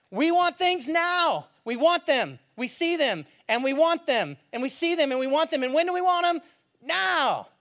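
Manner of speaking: chanting like a pep rally cheer; cheerleader. Acted. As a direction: lead the crowd in a call and response chant. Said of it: "I sound like a cheerleader".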